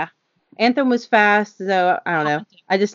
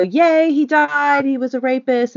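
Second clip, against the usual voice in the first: mock gloating; 4 semitones higher than usual. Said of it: "some sides were like".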